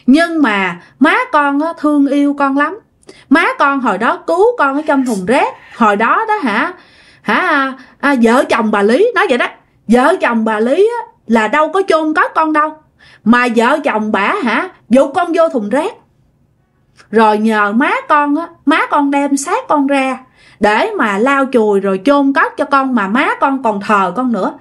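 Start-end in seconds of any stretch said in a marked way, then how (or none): 0.1-9.1 lightly voiced spirit child, slightly higher; a touch of plaintive pleading; mildly pitiful. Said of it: "Nói vậy nghe tội nghiệp quá". 9.9-24.5 lightly voiced spirit child, slightly higher; a touch of plaintive pleading; mildly pitiful. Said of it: "Nói vậy nghe tội nghiệp quá".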